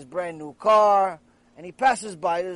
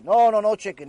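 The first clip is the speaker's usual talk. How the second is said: emphatic refusal; 7 dB louder than usual. Retold or imitated. Acted refusal of the chicken.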